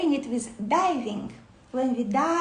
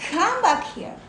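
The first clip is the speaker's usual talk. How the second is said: a higher, kind call that pulls the mind back; gently lovingly; 5 semitones higher, 3 dB louder than usual. Shown as a demonstration. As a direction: coax it back like a puppy. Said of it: "like this".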